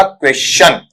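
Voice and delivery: क्वेश्चन with a plain s before the ch; teacher modelling the corrected क्वेश्चन; simple s pronunciation. Shown as a demonstration. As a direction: say क्वेश्चन, kwestʃən. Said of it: "simple से के रूप में पढ़ना है".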